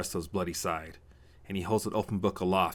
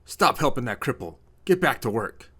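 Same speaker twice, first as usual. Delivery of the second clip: loud, gruff raging father; gruff bellow; 5 semitones higher, 7 dB louder than usual. A narrator's reading. Father orders his son back to work, gruff bellowing. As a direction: bellow it out, rough and raised. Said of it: "A large gruff voice behind Ryan bells out".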